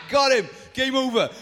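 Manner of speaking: loud triumphant cry; gleeful shout. Pretend. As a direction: yell it like you just scored the winning shot. Imagining sniper taking Goliath out.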